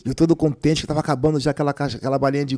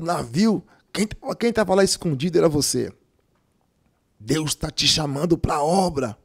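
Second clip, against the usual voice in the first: pastor's voice. Retold or imitated. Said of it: "Veio o pastor Ciro, pernambucano".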